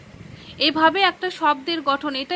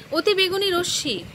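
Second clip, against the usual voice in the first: "অতি বেগুনি রশ্মি" as one unbroken unit, pitched higher; said all together; 5 semitones higher than usual. Shown as a demonstration. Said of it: "আমরা একসঙ্গে বলি".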